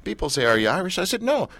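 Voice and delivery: comedian's Scottish accent, imitated; put-on Scottish, pitch jumping on the reply. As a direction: retell it with a Scots lilt. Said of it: "So he's there talking Scottish".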